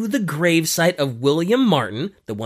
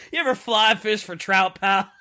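higher, casual pal voice; buddy God; 5 semitones higher than usual. Acted. God pulling out his rod, asking Glyndor casually. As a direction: ask it like a friendly fishing buddy. God asks about fly fishing.

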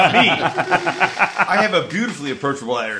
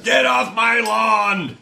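put-on grumpy old man; 6 semitones higher, much slower than usual.

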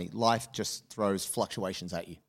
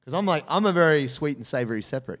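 incredulous protest; 5 semitones higher, 5 dB louder than usual. Retold or imitated. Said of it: "I was like".

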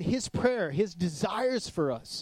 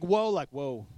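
awed whoa; 2 semitones lower, slower than usual. Retold or imitated. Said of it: "It's like".

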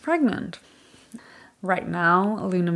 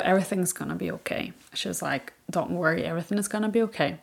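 reassuring mom; 5 dB quieter, faster than usual. Retold or imitated. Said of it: "my mom hugged me".

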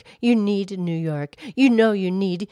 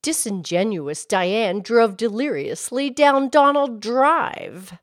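tongue twister demo; 3 semitones higher than usual. Shown as a demonstration. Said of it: "here's another one".

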